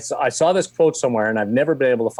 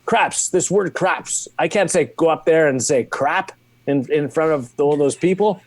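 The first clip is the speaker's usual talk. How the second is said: imitated thick French accent, pitched up; Bernie Parent; 5 semitones higher than usual. Hockey legend balking at the script, imitated French accent. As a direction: protest in a put-on French accent, higher voice. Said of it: "still got a thick French accent".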